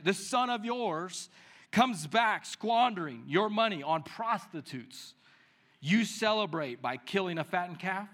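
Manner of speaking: put-on bitter, slow complaint from the older son, words dragged out; resentful older son. Older son complaining bitterly to his father. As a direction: voice the wronged brother's grievance. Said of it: "he was angry".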